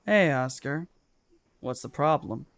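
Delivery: understated cold menace; cold, serious. Acted. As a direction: ask it evenly, with a sinister calm. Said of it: "So unslurring cold even".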